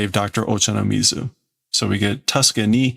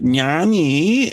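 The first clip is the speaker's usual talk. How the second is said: angry Nani; 5 semitones higher than usual. Retold or imitated. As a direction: snap "Nani?" in anger. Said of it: "hitting the ceiling of the panel in anger".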